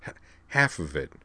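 soft, halting stammer after a sigh; sigh, then stumble softly through the words. A narrator's reading. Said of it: "Kate sighed".

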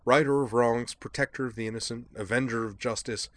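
chirpy and self-pleased; a light eccentric gentleman; jaunty Devlin voice. Acted. Devlin's dialogue.

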